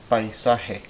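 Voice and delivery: Paisaje with pai as one glide, pai-SA-je; three syllables. Shown as a demonstration. Teacher asking learners to count, three syllables with diphthong. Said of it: "You should hear three".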